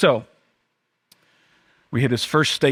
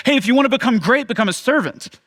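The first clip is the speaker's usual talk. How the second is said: lightly voiced Jesus; 10 semitones higher, 4 dB louder than usual. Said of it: "He would say stuff like".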